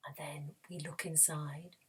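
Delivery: soft, suspenseful scene-setting; hushed storytelling. Pretend. Teacher has children imagine a castle door, hushed. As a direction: draw them in quietly, half whispering.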